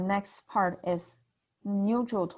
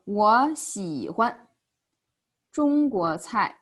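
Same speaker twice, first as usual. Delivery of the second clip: 我喜欢 中国菜 stretched out slowly; slow example sentence; 4 dB louder, slower than usual. Shown as a demonstration. Teacher gives the next example, slow and drawn out. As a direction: say each syllable slowly and carefully. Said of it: "Next example is".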